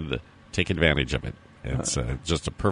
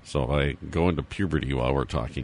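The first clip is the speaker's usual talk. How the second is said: hoarse, worn-out voice; scratchy, strained hoarse voice. Real, not acted. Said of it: "I just have a really hoarse voice".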